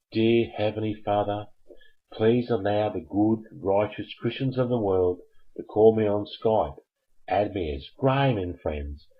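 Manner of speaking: mock prayer. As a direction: pray like in church, tongue in cheek.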